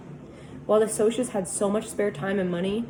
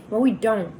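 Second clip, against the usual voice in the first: louder sharp snap; embarrassed boy snapping at friends; snapped; 3 semitones higher, 6 dB louder than usual. Acted. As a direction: bite the words off. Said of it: "I snapped".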